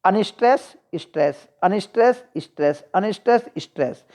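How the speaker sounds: chanted alternation, अनस्ट्रेस rising and स्ट्रेस dropping; teacher's see-saw count of अनस्ट्रेस, स्ट्रेस; iambic rhythm. Shown as a demonstration. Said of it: "iambic की बात करें तो iambic में".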